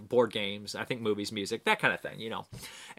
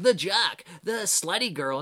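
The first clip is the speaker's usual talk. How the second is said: higher, sneering mock voice; 7 semitones higher, slower than usual. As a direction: scoff at the cliché labels. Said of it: "'cause I hate when they're like".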